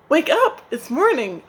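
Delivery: loud, high call to wake them; crying out. Acted. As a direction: yell it across the roost. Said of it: "Spider cried out once again".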